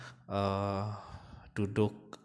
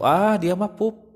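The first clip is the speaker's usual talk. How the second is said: drawn-out, high, louder "ah" of recognition; parent decoding cries; 9 semitones higher, 7 dB louder, slower than usual. Retold or imitated. Parent guesses what the baby's cry means, knowing realisation. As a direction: slowly voice a parent working out the cry. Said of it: "Kalau polanya begitu".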